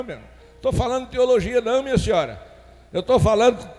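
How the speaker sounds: ordinary delivery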